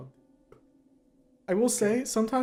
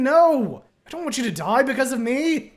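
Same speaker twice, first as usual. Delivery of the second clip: loud, anguished cry of no; desperate shout; 5 semitones higher, 8 dB louder than usual. Acted. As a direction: scream it, begging them not to die. Desperate plea while falling.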